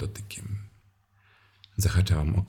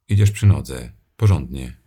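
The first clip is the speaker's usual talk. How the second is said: loud command; 11 dB louder than usual. Acted. Commanding the leashed man.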